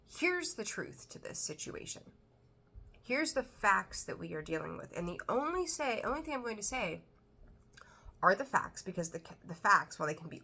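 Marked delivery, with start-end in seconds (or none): 0.1-5.0 matter of fact. Retold or imitated. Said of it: "attorney-like, like, matter of fact".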